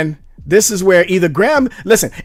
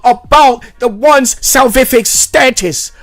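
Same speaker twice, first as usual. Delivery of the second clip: higher, hammed-up earnest plea; mock impassioned claim; 6 semitones higher than usual. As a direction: imitate a fervent justifier, pitched up and emphatic. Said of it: "he might try to claim that".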